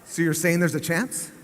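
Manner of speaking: deadpan calm question; calmest voice. Retold or imitated. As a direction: keep it calm and understated like nothing big is happening. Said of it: "in the calmest voice that I could use".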